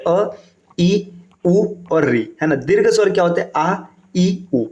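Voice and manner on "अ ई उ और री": each vowel slowly spaced out; slow vowel recital. Shown as a demonstration. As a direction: spell out the vowels one by one, slowly. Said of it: "ह्रस्व स्वर क्या होते हैं?". (धीमे-धीमे स्वर गिनाना)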